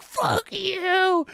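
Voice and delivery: loud, high mock shout; playful shout. Streamer reenacting shouting at Crystal, loud playful shout. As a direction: shout it at a friend in fun. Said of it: "I'm like".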